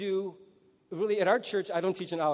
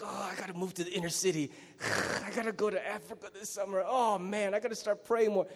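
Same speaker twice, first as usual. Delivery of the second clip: quieter, quick mock-zealous vows; a hint of hammed-up enthusiasm, softer; mock-fervent believer; 6 dB quieter than usual. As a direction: lightly mimic an inspired believer. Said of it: "You were so like".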